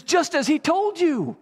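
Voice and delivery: hint of the angel's commanding voice; angel's firm reminder. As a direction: speak with calm authority. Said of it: "He says".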